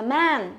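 "man" drawn out with a wide æ; flat E sound. Shown as a demonstration. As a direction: stretch "man" slowly on an open, flat vowel. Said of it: "đọc nó là e bẹt".

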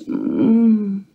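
drowsy mm from the bed; sleepy grunt. Acted. Molly answering from bed, a sleepy grunt. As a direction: grunt half asleep. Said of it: "soft grunt answered".

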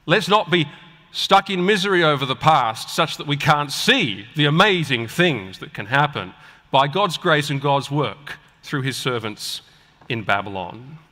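ordinary delivery

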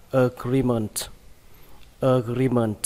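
"agreement" said twice clearly; model word. Shown as a demonstration. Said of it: "Các bạn đọc là".

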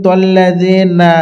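"তল্লাযীনা" with the last na bent to ne; mistaken final vowel. Retold or imitated. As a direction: say "তল্লাযীনা" ending in a ne sound. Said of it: "এইভাবে পড়ি নুন জবর নে".

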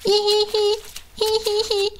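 high giggling hi hi hi; tickling giggle. Acted. Jellyfish giggling as she tickles the crab. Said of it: "Camille chatouille son ami".

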